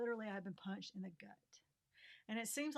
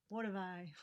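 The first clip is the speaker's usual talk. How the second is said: a touch of lament; 4 dB louder than usual. Real, not acted. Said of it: "looking up to God and saying".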